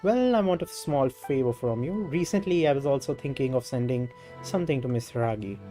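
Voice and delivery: animated dialogue read with emphatic openings; lightly voiced game character. Game character answers a traveler bearing a letter, lightly acted. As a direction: lightly act out a character's spoken lines.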